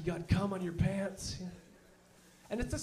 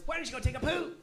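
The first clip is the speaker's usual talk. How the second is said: mock insult; 7 semitones higher, faster than usual. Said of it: "the best you can tell them is".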